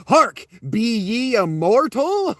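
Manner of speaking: slow, high, hammed-up archaic knight; mock heroic call. Owen calling to the unseen voice, mock-heroic and slow. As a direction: proclaim it like a pompous old-time hero. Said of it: "It's fucking funny to me".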